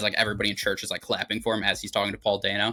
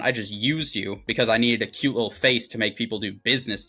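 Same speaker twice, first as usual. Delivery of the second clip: raised-voice imitation of a father's outburst; mock angry tirade; 5 dB louder than usual. Daniel drops a bomb on his son, mock angry tirade. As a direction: lay into him, half in earnest.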